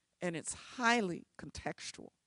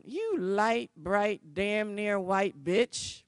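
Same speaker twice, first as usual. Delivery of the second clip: angry tirade; 8 dB louder than usual. Retold or imitated. Old tenant cussing out the lawyer, loud and angry. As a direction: lash out at her, louder and louder. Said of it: "She reamed me a new one".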